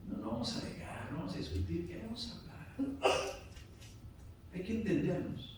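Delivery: softly defuse an argument; gentle voice, settling someone down to talk; calm, peaceful reassurance. Acted. Pastor modelling talking without arguing, calm and peaceful. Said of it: "con mucha paz y tranquilidad".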